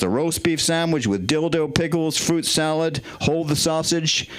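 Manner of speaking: put-on American menu voice; American accent. Shown as a demonstration. Comedian giving the last menu order, in an American accent. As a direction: read the items out in an American accent. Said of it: "Can I do American menu with an American voice?".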